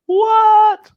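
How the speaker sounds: high, loud startled what; surprised. Real, not acted. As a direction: shoot it up in sudden surprise. Spotting things in the picture.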